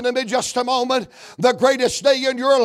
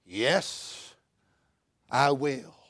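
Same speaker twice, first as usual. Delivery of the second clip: soft, low assurance; gentle Jesus; 8 semitones lower, 10 dB quieter, much slower than usual. Acted. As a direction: answer quietly and kindly. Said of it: "And Jesus goes".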